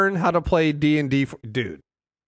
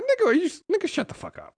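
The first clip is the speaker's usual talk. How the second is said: exasperated outburst; 12 semitones higher, 4 dB quieter, faster than usual. Retold or imitated. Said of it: "I'm literally going like".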